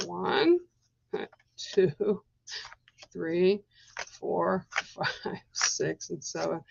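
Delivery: counting cards, fading to a whisper. Real, not acted. Reader counting out cards, fading toward a whisper.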